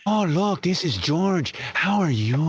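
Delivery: lightly put-on cartoon voice; a half-hearted stab at a character; George. Host auditioning another voice for the cartoonist, lightly put on. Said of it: "how's that?".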